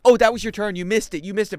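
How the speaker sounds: mild mock yelling; nagging girlfriend. Girlfriend giving directions after the missed turn, mock nagging. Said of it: "she's yelling at you because she's like".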